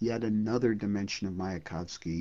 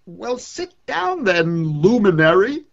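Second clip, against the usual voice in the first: slow, higher, louder mock-grand invitation; poet inviting the sun; 9 semitones higher, 11 dB louder than usual. Poet inviting the sun to sit, slow grand invitation. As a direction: wave the luminary to a seat with bravado. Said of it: "I said to him".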